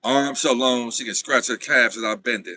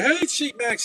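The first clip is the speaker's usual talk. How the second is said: imitating the sister; 14 semitones higher, slower than usual. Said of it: "She done be like".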